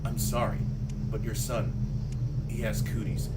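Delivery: low, soft bad-news doctor voice; lightly voiced doctor breaking grim news; grave doctor. Doctor quietly telling a mother about her son, low and grave. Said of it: "He's all like".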